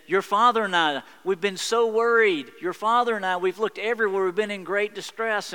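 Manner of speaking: a frantic mother who searched everywhere; voiced as a distressed mother; worried mother. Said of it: "Mary says".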